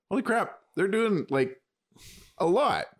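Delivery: half-playful gasp of surprise at how much is going on; amazed. Retold or imitated. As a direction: fan reacting to the new Picard season, in lightly hammed-up amazement. Amazed reaction to the show.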